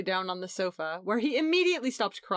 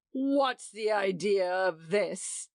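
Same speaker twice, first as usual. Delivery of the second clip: angry outburst; slower than usual. A narrator's reading. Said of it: "broke out John".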